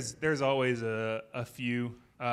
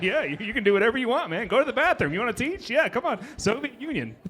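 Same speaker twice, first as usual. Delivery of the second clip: nervous placating; 10 semitones higher, 4 dB louder than usual. Retold or imitated. Scared teacher placating the student.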